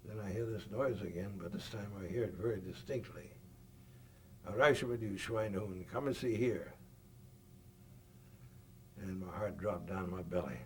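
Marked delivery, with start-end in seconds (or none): 4.5-6.7 lightly put-on German accent, a bit louder; a hint of a German soldier ordering him out; mock German soldier. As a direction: bark it like a German guard, only half in earnest. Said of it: "stop that damn German crap".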